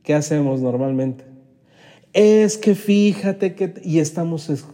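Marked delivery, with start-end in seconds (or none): 2.1-3.7 excusing. Retold or imitated.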